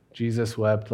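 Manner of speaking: "Jesus wept" rattled off quickly, as if skipping past it; brushed-off reading. Retold or imitated. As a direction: toss the verse aside to get to the miracle. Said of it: "This is the part that we like to minimize".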